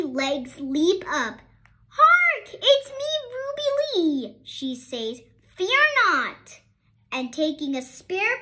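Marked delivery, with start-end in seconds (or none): 1.9-4.4 high, loud proclaiming hero cry; theatrical herald's shout; heroic call. A narrator's reading. Ruby Lee's heroic call. 5.6-6.6 high, loud proclaiming hero cry; theatrical herald's shout; heroic call. A narrator's reading. Ruby Lee's heroic call.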